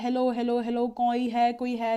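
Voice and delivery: loud calling out; shouting hello. Retold or imitated. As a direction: call as if searching for someone. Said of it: "मतलब वो चिल्ला रहा होता है".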